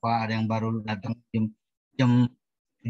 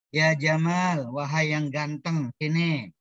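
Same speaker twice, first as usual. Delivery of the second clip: calling a friend properly; slower than usual. Pretend. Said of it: "yang benar panggilnya".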